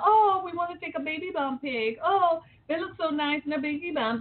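put-on high, sing-song gushing over a baby bump photo; a mocking impression of proud new parents. Mocking parents who gush over baby bump photos, in a high gushing voice. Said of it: "We have them".

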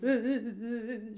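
loud mock sobbing; imitated crying. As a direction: re-enact bursting into tears, high and loud. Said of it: "Of course, I start crying".

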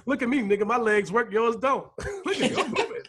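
mock show-off. Voicing a Holy Ghost dancer.

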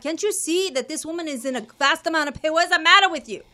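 high, loud outraged rant; hammed-up husband berating the nurse; indignant man yelling. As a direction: play the busybody stranger demanding help at the top of his voice. Stranger demanding nurse help her.

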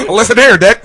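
put-on tough old-timey copper; 1930s beat cop. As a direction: gangster film "listen here". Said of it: "Nineteen thirties cop".

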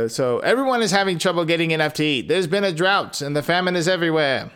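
rattled off fast; quick plain reread. Shown as a demonstration. Rereading the father's line quickly after a joke, fast. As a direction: hurry back through the line. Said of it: "Uh, okay, so, da, da".

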